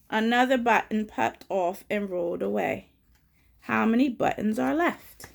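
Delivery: picture-book read-aloud, key words punched; children's story reading. A narrator's reading. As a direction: read it out clearly for little listeners. Reads and quizzes children.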